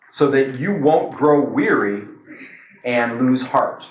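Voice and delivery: slow, solemn Bible reading; scripture reading. Acted. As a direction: read the verse with weight.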